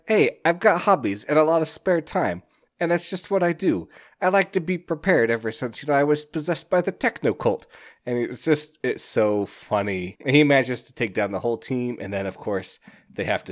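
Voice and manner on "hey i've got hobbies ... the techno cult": high-pitched mock self-defence; playfully protesting his innocence; defensive justifying. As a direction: explain yourself in a raised, acted-out voice. He justifies himself to baffled team.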